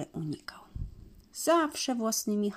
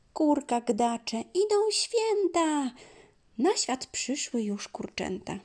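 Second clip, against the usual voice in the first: clucking hen; 5 semitones higher than usual. Acted.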